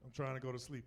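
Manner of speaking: polite, restrained request; respectful. Retold or imitated. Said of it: "which I was respectful".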